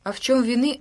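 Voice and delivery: usual speaking voice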